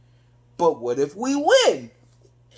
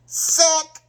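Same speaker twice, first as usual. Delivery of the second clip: sudden exclamation; 8 semitones higher, 4 dB louder than usual. Retold or imitated. Calling out a bad play.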